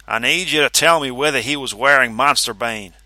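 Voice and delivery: cold, demanding official; stern official voice. Acted. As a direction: press him without sympathy. Vanzetti voiced in story.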